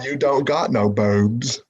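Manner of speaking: slow, drawn-out Southern movie drawl; slow, simple Southern drawl; Forrest Gump voice. Pretend. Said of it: "Lieutenant Dan".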